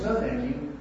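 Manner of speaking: a pleasant, polite "No, thank you". Shown as a demonstration. Declining the wife's offer of another helping, pleasant and polite. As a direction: decline kindly, with no edge at all. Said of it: "You can say in a pleasant voice".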